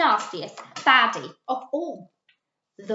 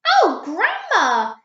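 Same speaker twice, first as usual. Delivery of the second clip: put-on little girl; 9 semitones higher, 8 dB louder, slower than usual. A narrator's reading. Red Riding Hood in story.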